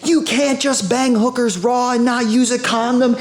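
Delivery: put-on high, slow, scandalised girl's voice; mock girl scolding a guy about condoms; imitating the girl. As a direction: play her appalled and lecturing. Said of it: "she's like".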